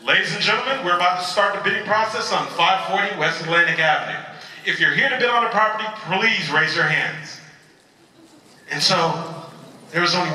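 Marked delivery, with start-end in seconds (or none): 0.0-7.4 lightly acted auctioneer's announcement; a hint of a formal auction caller. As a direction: announce it to the bidders, stretching the final request. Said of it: "the auctioneer came up to the podium".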